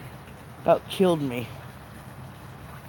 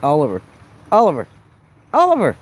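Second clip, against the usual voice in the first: louder and louder calling out; 11 dB louder, much faster than usual. Real, not acted. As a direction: call his name across the room. Calling the baby's name.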